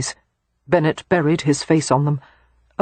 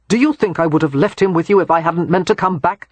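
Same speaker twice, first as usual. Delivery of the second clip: demanding; 3 dB louder than usual. Acted. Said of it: "Christopher demanded".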